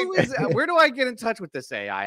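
mock eager asking. Jokingly asking how to hire AI.

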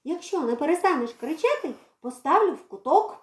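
a hint of a stern mother; mild motherly threat. Girl threatens to put the cat in the corner. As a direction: threaten the corner, half playful. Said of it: "пригрозила Марійка".

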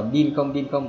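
BIN clipped without humming out its N; missing held N. Shown as a demonstration. Teacher warning students about missing N, clipped BIN. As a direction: say BIN with the nasal ending dropped. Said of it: "bị thiếu một âm N đi".

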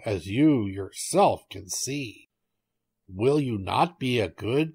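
slow, drawn-out plea from a tiger; lightly voiced tiger begging for food; wheedling tiger. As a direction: stretch the words in a mild hungry plea.

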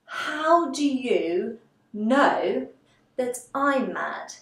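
slow, theatrical mild shock. Acted. Alice questioning the cat, acted mild shock, drawn out. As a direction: stretch the question out, lightly acting taken aback. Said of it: "we're shocked".

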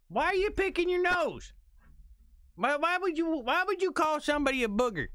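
a baffled, disgusted cry at the screen; exasperated outburst. Real, not acted. Reacting to the clip of the man, high exasperated disbelief.

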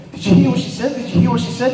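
imitating a rattled woman; freaked out. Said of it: "the sort of state that they were in".

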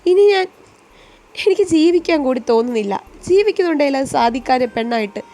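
broken-hearted wail fading into grief; anguished crying. Acted. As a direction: sob out that life is over. Girl in despair over forced marriage.

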